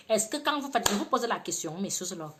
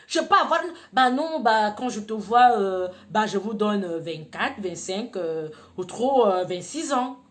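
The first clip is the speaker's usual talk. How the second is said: coy mock flirt; 6 dB louder than usual. Playfully lying about her age.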